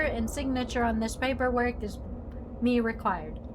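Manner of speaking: lightly voiced old-fashioned formal speaker; archaic speech. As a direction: speak like a stiff Shakespearean gentleman. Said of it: "When did you start talking like this?".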